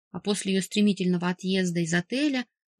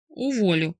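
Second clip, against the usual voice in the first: rumbled; 4 dB louder than usual. A narrator's reading. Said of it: "пророкотал папа".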